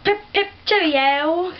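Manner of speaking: hammed-up British cowboy greeting; playful put-on British voice; British accent. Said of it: "with a British accent".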